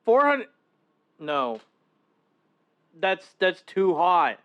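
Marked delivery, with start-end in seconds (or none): 0.1-0.5 stunned, rising disbelief; can't believe the number; shocked disbelief. Real, not acted. Shocked by 480 degrees oven.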